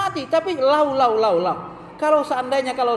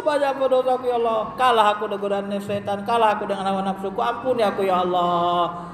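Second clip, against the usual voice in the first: acted tearful repentance; 2 semitones lower than usual. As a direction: imitate a weeping penitent's pleading.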